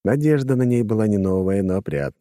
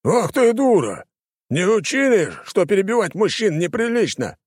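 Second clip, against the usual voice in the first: losing his temper; 12 semitones higher than usual. A narrator's reading. Arguer snapping at the girl before striking, enraged. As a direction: spit out the insult. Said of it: "не выдержал спорщик".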